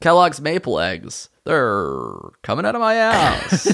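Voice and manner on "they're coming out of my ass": slow, swooping, drawled cereal-mascot voice. Pitching a cereal mascot's catchphrase: Tony the Tiger voice. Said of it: "You just turned it into Tony the Tiger".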